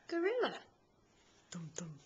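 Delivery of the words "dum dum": chest thump. Pretend. Gorilla chest thump sound.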